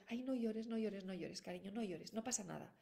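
soothing parent imitation. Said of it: "Y nosotros".

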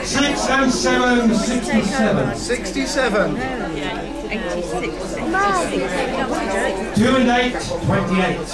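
sing-song number calling with repeats; bingo caller. Acted. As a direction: call each number, then repeat it falling.

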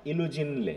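ইলুজিনলে said slowly, every syllable clear, the le sounded; local pronunciation. Shown as a demonstration. Teacher modelling ইলুজিনলে slowly for students. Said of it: "এলি থাকলে এলিটা উচ্চারণ করব".

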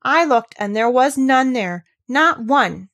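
put-on girl defending the boy in fierce anger; indignant near shout. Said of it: "almost shouting up the wall in her fierce indignation".

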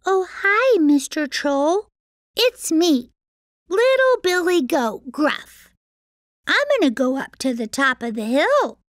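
high, sweet little goat. Acted. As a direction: play the tiny goat brightly.

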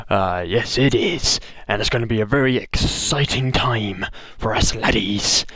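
a hint of a pirate. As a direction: slip into a pirate voice. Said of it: "I've just spoken in a pirate voice".

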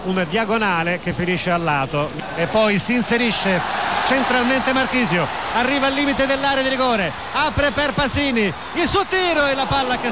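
building up as the attack develops; rising commentary excitement. Real, not acted. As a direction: voice climbing with the chance.

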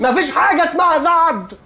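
high, exasperated correction. Acted. Boss correcting the typist, high and exasperated. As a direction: insist she's wrong, voice high.

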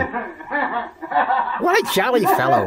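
slow, chuckling through the words; mock jolly laugh. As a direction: laugh it out like a merry old fellow. Riffer mocks a laughing character.

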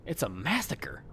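hushed whisper. Shown as a demonstration. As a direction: whisper it, voiceless. Whispered then repeated.

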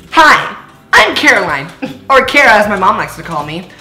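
put-on quick, lightly high teen girl voice; valley girl voice. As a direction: read like a bored teen girl. Reads girl intro in character.

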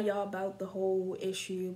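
talking between hookah puffs; speaking with mouthpiece on lip. Real, not acted. Seen 0: mouthpiece touches lower lip around 1.1-2.3s, moved away at 0.4-0.8.

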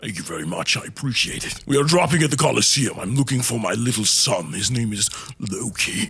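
Kratos voice. Acted. Holds Kratos voice.

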